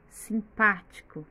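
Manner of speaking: simpático said slowly with a firm PÁ; measured simpático, second syllable strongest; stress on PÁ. Shown as a demonstration. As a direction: lean on the PÁ in simpático. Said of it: "o pá está com acento".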